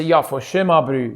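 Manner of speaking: short South African catchphrase; South African accent. Shown as a demonstration. Showing how to get back into it, South African accent. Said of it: "if I can say".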